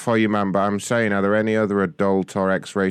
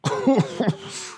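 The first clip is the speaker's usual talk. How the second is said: high, breathy laugh; short burst of amused laughter; 13 semitones higher than usual. Real, not acted. Amused during a prank call.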